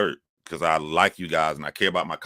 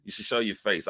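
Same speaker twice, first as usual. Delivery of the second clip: quiet repeat; 2 semitones higher, 5 dB quieter than usual. Real, not acted. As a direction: settle it down, say it gently.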